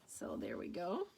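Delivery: soft whispered aside. Real, not acted. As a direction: breathe it out quietly. Unvoiced aside.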